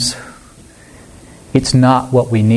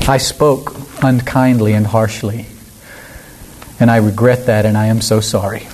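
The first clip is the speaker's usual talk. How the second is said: understated acted contrition, unhurried and lower at the end; sincere apology; 3 semitones lower than usual. Preacher demonstrates a true apology, sincere and low. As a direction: take the blame simply, with pauses. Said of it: "An apology is".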